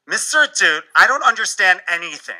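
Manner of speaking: student admitting she is lost; lightly voiced anxious student; overwhelmed student. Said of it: "allow me to demonstrate".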